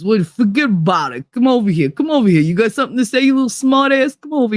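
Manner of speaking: a light Jersey Italian wiseguy voice; mock mob guy calling you over; a hint of a tough Italian guy scolding; Italian tough guy impression. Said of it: "that talks to you like this".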